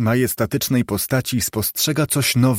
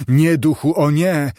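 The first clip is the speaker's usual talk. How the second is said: raised, louder desperate no; anguished cry; 4 semitones higher, 4 dB louder than usual. Acted. Scrooge begs the spirit at his grave, anguished. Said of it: "zawołał Scrooge".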